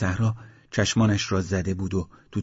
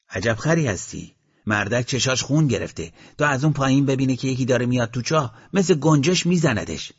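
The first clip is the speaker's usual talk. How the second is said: scolding gunman; 4 semitones higher, 4 dB louder than usual. Acted. Kazeruni scolds his comrade.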